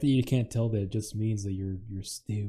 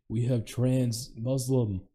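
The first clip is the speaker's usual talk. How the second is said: mock announcer; 3 semitones higher, 5 dB louder, slower than usual. Mock ring announcer intro.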